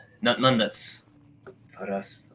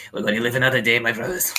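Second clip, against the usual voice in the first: a louder, hearty call down to his kin; mock rallying shout; 2 semitones higher, 4 dB louder, faster than usual. Goblin prisoner shouts down to his brothers, louder rallying call. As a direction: cheer the brothers on as if food means survival. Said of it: "shouts down".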